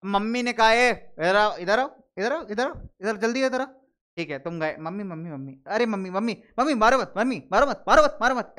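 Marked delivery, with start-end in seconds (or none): 0.7-3.7 lightly acted impatient mother; quick, repeated summons to a child in trouble; mock motherly "come here"; mother summoning child. 4.8-8.5 hammed-up begging not to be hit; mock child pleading. Child begs mother not to hit.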